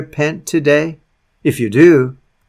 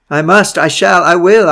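1 determined; 5 semitones higher, 5 dB louder than usual. Acted. Christ breaks in on the sinner.

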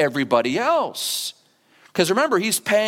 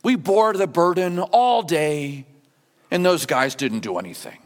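mock martyr whine. Preacher mocks grumbling workers with a martyr whine. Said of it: "go like this and go".

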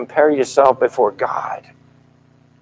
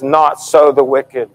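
firm declaration. Shown as a demonstration. Preacher to congregation, declaring God's verdict firmly. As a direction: proclaim the verdict with weight on "so". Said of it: "God says".

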